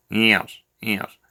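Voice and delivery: quiet, droning yes with no lift; deadpan, bored repetition; monotone Alan. Retold or imitated. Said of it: "bloody monotone as shit".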